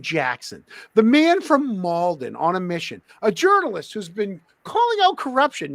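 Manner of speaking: like a TV host introducing a guest; show intro voice. Shown as a demonstration. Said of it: "There's your, there's your opening".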